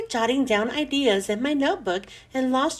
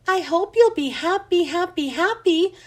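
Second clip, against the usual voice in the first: delighted squeak; 6 semitones higher than usual. A narrator's reading. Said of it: "I squeaked with delight".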